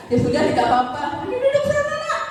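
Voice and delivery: friendly teacher, smiling through the words; smiling, reassuring. Acted. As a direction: gently reassure the late student. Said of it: "Sambil senyum, senyum". (guru yang ramah sambil tersenyum)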